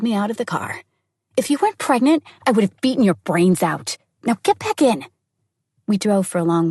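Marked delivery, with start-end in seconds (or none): 1.3-5.1 exasperated threat. Acted. Friend threatens after struggle.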